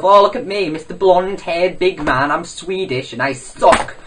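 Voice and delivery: lightly mocking rival's voice; hint of a ridiculed show-off; PewDiePie. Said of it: "PewDiePie himself".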